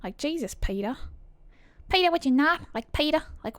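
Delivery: amateur East Coast American voice; New York-Boston accent. Shown as a demonstration. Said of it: "She's kinda New York".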